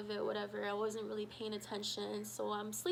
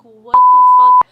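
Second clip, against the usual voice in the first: high, loud startled scream; shocked yell; 30 dB louder than usual. Retold or imitated. Waking to find Sandy in bed, high shocked scream. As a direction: shriek it in shock.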